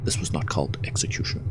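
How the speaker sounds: dramatic movie trailer announcer. Acted. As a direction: read it like an epic film intro. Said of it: "Let's do my best announcer voice here".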